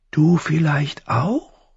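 high, slow crow question; hint slowly in a thin rising voice. A narrator's reading. Crow suggests boy has wings, high and thin. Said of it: "Die Stimme klang hoch und dünn".

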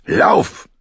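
high, sudden shout; urgent command. Acted. Gendry sending Arya running, urgent shout. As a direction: shout it as a one-word order. Gendry orders her to run.

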